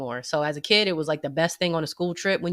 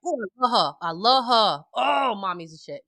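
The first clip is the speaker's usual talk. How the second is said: put-on gushing kid voice; 4 semitones higher than usual.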